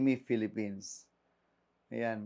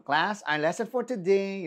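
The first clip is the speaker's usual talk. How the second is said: teacher impression; 5 semitones higher than usual. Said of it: "pati mga teacher ko".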